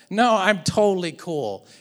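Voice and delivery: a touch of irritation under fake calm; passive-aggressive. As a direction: deny being upset too firmly. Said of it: "That's very passive-aggressive".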